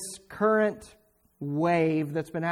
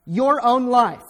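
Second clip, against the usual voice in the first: hate your own life, shouted high and loud; preacher's roar; forceful shout; 5 semitones higher, 8 dB louder, slower than usual. Real, not acted. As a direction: hammer the command home.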